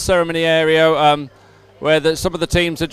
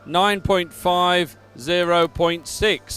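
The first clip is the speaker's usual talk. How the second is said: measured, emphatic results read; results announcement. Real, not acted. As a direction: announce each placing clearly to the crowd. Reads out race results.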